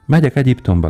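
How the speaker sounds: high, ringing call; swallow's cry. Acted. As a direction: cry it out to the uncaring sailors. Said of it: "kiáltotta a fecske".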